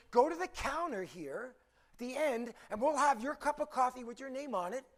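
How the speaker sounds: perky and helpful, lifting at the end; over-caffeinated cheer. Acted. Counter clerk offering her best customer a shortcut, eagerly perky. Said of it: "she had too much coffee".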